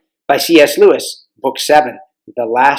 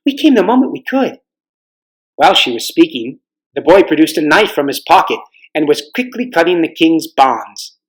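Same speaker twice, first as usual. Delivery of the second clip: story narration. A narrator's reading. Narration between quotes.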